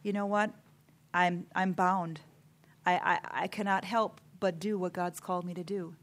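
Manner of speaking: quiet, composed conviction; calm and sweet. Retold or imitated. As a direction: answer critics gently and unhurried. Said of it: "I've just calmly and sweetly say".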